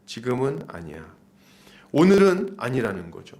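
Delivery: usual speaking voice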